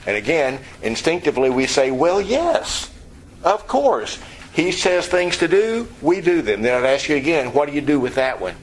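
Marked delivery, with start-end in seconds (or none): 1.9-6.6 high, eager imitation of a believer; a lightly voiced, too-quick yes; mock eager believer. Preacher voicing believers' instinctive answer, high and eager.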